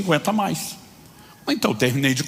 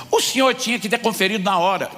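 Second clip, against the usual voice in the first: a clerk refusing the blame; cashier snapping; 6 semitones higher than usual. Retold or imitated. Cashier to customer, mock indignant snap. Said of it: "E ela começou a gritar".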